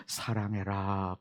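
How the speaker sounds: a gentle hushed command; soft God's word. Retold or imitated.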